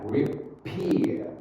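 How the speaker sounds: "Repeat" with a forceful, aspirated P; stressed P. Shown as a demonstration. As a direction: push the P in "Repeat". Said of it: "Ditekan, ya".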